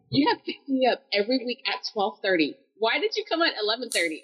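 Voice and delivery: mildly indignant questioning; retold exasperation. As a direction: complain as if baffled by her mistake. Retold complaint to mother.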